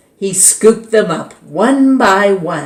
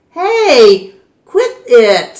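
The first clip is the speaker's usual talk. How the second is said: high, louder snap; annoyed hey; 6 semitones higher, 6 dB louder, much slower than usual. A narrator's reading. Connor protesting to David, high annoyed hey. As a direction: tell him to stop now. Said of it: "said Connor".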